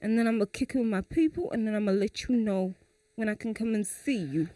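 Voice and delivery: put-on quiet, non-committal boyfriend; Julius. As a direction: put her off softly, in no hurry. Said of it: "So you call, you call me".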